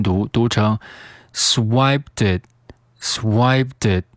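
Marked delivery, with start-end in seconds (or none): 1.3-4.0 "swiped it" run together, the t joining onto "it"; "swiped it" said as swipe-tit; linked "swiped it". Shown as a demonstration. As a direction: link "swiped it" as one word. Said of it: "swiped和后面的这个it进行连读".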